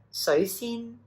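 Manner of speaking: sui rising, xin high, slowly; tone demo. Shown as a demonstration. Teacher modelling the tea name, careful. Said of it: "Sui is the mid rising".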